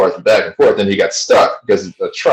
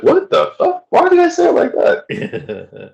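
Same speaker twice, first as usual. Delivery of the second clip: shocked at himself; slower than usual. Retold or imitated. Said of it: "and I was like".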